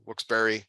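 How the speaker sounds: WILKES-BARRE ending in BERRY; alternate pronunciation. Shown as a demonstration. Host joking about tonight's pronunciations, variant pronunciation. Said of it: "doing a lot of pronunciation".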